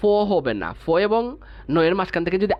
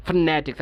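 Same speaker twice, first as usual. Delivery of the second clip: "ফনেটিক্স" as fNE-tiks, weight on ne; stress on NE. Shown as a demonstration. Teacher explaining the stress mark, "ফনেটিক্স" stressed on ne. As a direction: press a little on the ne of "ফনেটিক্স". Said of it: "আমি নতে একটু ছাপ দিয়ে উচ্চারণ করছি".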